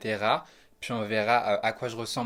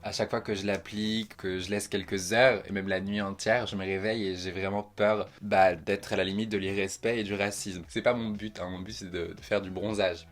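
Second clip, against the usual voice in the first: just woke up voice; groggy morning voice; 3 semitones lower than usual. Real, not acted. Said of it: "J'ai la voix du matin".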